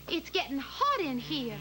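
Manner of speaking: slow, overwrought melodramatic delivery; hammed-up dramatic acting. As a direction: ham up a Southern belle scene. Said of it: "a very dramatic scene".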